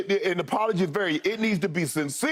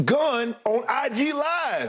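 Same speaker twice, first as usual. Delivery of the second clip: each word slowed and pressed, a bit higher; slow emphatic; 5 semitones higher, much slower than usual. Real, not acted. Stressing Ja's repeat mistake to Skip, slow and emphatic. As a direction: spell out the offense slowly for weight.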